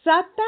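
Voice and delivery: "sapin" high and loud after a long hissed S; stretched initial S. Shown as a demonstration. Teacher asks children if sapin has an S, stretched initial S. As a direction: hold the first S of "sapin". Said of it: "Est-ce qu'on entend le S dans".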